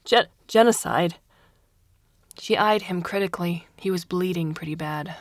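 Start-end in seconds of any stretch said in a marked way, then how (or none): 0.0-1.2 stammered, high and louder through sobs; blubbering. A narrator's reading. Prisoner confessing under the blade, blubbering. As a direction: force it out between sobs. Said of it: "he blubbered".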